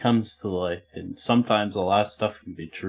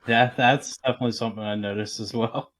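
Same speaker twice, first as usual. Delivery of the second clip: muffled; faster than usual. Real, not acted. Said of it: "you're so muffled".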